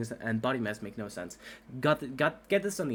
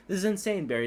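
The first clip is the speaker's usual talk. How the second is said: panicked; 7 semitones higher than usual. Acted. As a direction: cry out against the crazy flight. Panicked flying scene.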